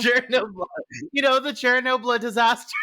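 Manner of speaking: hammed-up botched Chernobyl, mocking through laughter; imitating mispronunciation. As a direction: mimic Chernobyl as "share-a-NO-bla". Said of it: "you were like".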